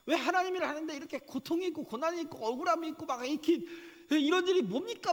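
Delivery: high, loud, pleading outcry; desperate wail asking God why; anguished complaint to God. Retold or imitated. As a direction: cry out to God in bitter protest. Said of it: "막 이렇게 안 했어요".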